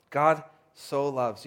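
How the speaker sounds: "so" held long and slow; stress on SO. Shown as a demonstration. Preacher returning to the hope of the verse, lingering on "so". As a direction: take time over the word "so". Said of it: "There's an emphasis in this verse".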